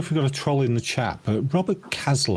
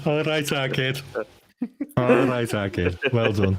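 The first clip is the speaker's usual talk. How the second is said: broad Scouse, easy approval; Scouse accent. Shown as a demonstration. Cheering on his fellow Scouser, broad Scouse accent. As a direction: drop into real Scouse. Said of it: "dropping down to my real Scouse accent".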